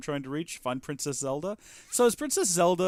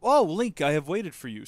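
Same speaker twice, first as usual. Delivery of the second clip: lightly voiced robot; 4 semitones higher, 4 dB louder than usual. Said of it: "says the steward construct".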